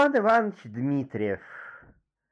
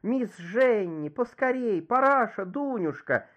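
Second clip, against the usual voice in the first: high-pitched, frantic calling for help; alarmed cry; 8 semitones higher than usual. A narrator's reading. Startled Lizetta calls her servants to save her from a bee, alarmed cry. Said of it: "закричала".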